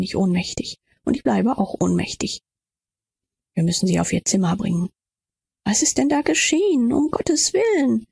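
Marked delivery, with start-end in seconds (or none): 5.6-8.1 high, shocked question; acted dismay, higher voice; alarmed exclamation. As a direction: exclaim in raised pitch, aghast. Newcomer finds Else collapsed.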